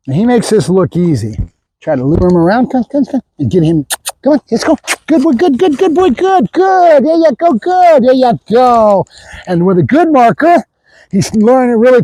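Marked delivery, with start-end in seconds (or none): 2.7-4.8 coaxing dog call. Real, not acted. Luring the dog around. 5.1-9.1 high dog praise. Real, not acted. Trainer praising his dog: high, sing-song good boys.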